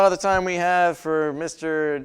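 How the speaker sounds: loudly cutting him off; loud interruption. Real, not acted. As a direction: raise voice to wrap up. Host cuts off rambling guest.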